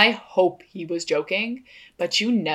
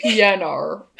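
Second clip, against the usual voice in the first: Australian accent; 6 dB louder than usual. Shown as a demonstration. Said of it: "So just how Oscar says piano".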